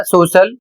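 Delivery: सोशल with "sh" in the middle; pronunciation demo. Shown as a demonstration. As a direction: model सोशल, the CI read as "sh". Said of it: "इसे पढ़ा जाएगा". (सोशल में श का उच्चारण)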